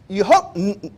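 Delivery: ordinary talk, nothing marked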